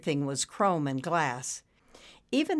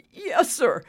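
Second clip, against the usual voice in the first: high, louder smug reply; 12 semitones higher, 6 dB louder than usual. A narrator's reading. Maintenance man leaving his rattled boss, smug. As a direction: answer smugly, pitched up. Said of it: "Dexter said smugly".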